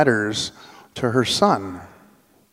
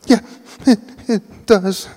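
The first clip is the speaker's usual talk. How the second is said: put-on hurt little boy; 8 semitones higher, 4 dB louder than usual. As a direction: play the wounded kid soaking up sympathy. Hurt boy answering his aunt.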